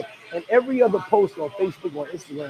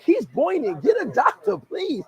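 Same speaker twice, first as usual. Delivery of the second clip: mock panic; 10 semitones higher, slower than usual. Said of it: "I'm like".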